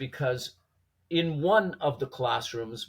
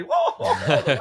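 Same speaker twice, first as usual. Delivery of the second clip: surprised; 7 dB louder than usual. Retold or imitated. Class reacting, then laughing.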